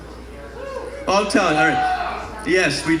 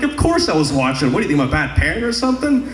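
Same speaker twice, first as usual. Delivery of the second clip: yelling back; faster than usual. Retold or imitated. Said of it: "So I start yelling back".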